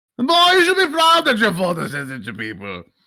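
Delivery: high, loud, booming proud father voice.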